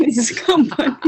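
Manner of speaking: "company" said the British way, laughing through it; mock teacher giving the correct "company" with a laugh; teacher's British model. Guest quoting teacher's right "company", laughing. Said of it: "my teacher in the college, she's always told me".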